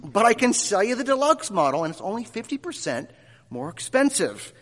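put-on wholesome 1950s kid. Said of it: "the reply is something like this".

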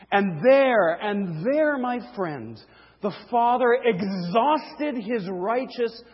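emphatic pulpit delivery, landing hard on key words; forceful preaching. Real, not acted. Preacher proclaiming wrath exhausted on the cross, forceful preaching. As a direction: drive it to a final, decisive close.

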